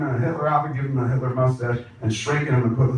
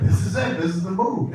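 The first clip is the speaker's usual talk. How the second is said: much higher, thrilled exclamation; excitedly seizing on the idea; retold excitement; 7 semitones higher than usual. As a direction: announce a great find in a raised pitch. Retold delight at the picture.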